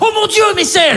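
high shocked fan voice; squeaky stunned fan; mock gasp.

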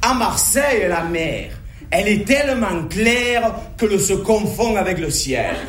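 easy-going southern Marseille accent; relaxed Marseille banter. Shown as a demonstration. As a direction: tell it as a proud Marseillais, accent and all. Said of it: "Moi je préfère dire".

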